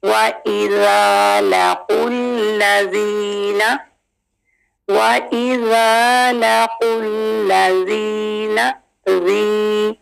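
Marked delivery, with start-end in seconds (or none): 0.0-8.7 slow tajweed recitation; Quran recitation. Shown as a demonstration. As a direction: recite slowly with melody. Recites the verse slowly. (धीमी तिलावत)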